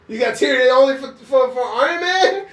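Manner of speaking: mock her through laughter; teasing a friend, cracking up; laughing tease. Real, not acted.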